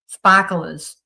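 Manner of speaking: Boston "Sparklers" with no r, spahk-luhz; Boston accent. Shown as a demonstration. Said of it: "that's what you heard because I'm Boston".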